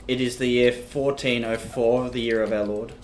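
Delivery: slow, grand announcer tone; mock proclamation. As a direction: proclaim it like a town crier.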